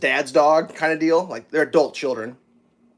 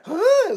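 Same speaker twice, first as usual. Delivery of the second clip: imitated dog perking up. Dog reacting to its name.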